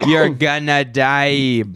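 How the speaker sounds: put-on Outer Banks accent. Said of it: "my Outer Banks accent".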